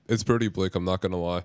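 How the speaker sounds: flat monotone delivery. Real, not acted. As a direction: say it with no pitch movement. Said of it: "Very monotone for all y'all there".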